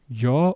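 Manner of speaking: yo said with a hard j, like jo. Shown as a demonstration. Teacher showing the Spanish y: yo with a hard j. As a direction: start yo with a firm j sound. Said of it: "Yo could be pronounced like this".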